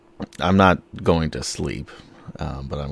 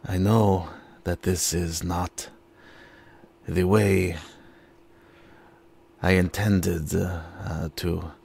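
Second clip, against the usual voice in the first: sincere vow; slower than usual. Acted. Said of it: "I will just say, um, to the open air".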